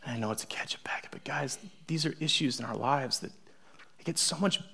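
a sincere hushed whisper; serious whisper. Real, not acted. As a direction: lean in and confide. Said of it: "We can get real serious".

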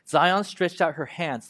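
slow, weighty reading of the lament; mournful Bible reading; solemn scripture reading. Acted. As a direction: read each line slowly, letting it sink in.

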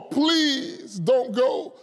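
long drawn-out "please", imitating begging; pleading. Disciples begging Paul not to go, pleading. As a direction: plead slowly, stretching the first word. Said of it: "they started to beg Paul".

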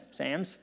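"Psalms" said as "Sams"; "Psalms" rhyming with "hams"; Scottish-style "Sams". Retold or imitated. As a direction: say "Psalms" with the vowel of "Sam". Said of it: "you pronounce Psalms as Sams".

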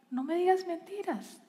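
soft, calm correcting in love; quiet loving rebuke; gentle correction. Retold or imitated. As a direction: correct without attacking, softly. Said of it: "la corrección es una corrección en amor".

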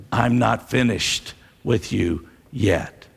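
whispered promise. Acted. Whispered line inside Jesus' call.

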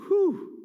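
high, sharp blown-out exhale; heavy whew. Real, not acted. Preacher taking in the psalmist's pain, whew. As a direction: let out an overwhelmed whew.

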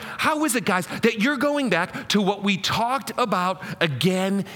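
put-on mildly exasperated mom scolding her kids; a touch of a fed-up mother. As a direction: plead like a mom at the end of her rope. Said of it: "You hear Mom coming out of this?".

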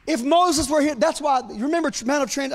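eager preacher rush; getting excited. Real, not acted. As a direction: let the excitement run ahead of you. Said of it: "I'm getting excited now".

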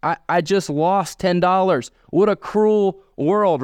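hammed-up crying over a lost ten dollars; mock crying. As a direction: play up the stick figure's self-pity, drawn out. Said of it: "and he's crying".

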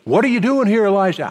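the same question yet again, fed up; an irritated echo of God's question; mock exasperated repeat.

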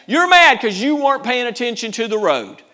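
loud, high, slowing preacher's call; preaching shout. Real, not acted. Preacher scolding the angry driver in a rising shout. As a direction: hammer it home to the congregation.

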